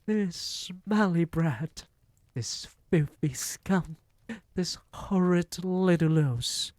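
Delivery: gleeful witch shout. A narrator's reading. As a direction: crow the rhyme like a cackling witch. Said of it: "she shouted out".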